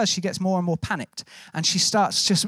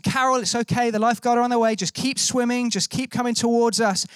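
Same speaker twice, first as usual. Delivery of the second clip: retold call across the water, pitched higher; mildly raised, encouraging call to a swimmer; 4 semitones higher than usual. Rescuers to drifting woman to keep her going, calling out. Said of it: "as we're calling".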